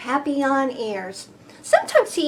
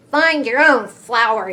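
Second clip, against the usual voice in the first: louder mock shout at the ladybug; 5 dB louder than usual. Greedy bee yelling at the tired ladybug, mock shout. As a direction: tell her off loudly. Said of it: "he shouted".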